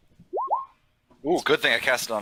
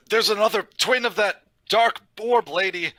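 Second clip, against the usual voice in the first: higher, urgent warning; alarmed message; 6 semitones higher than usual. Acted. Cleric warning an ally through the mental link, alarmed. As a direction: send a warning, pitched up in alarm.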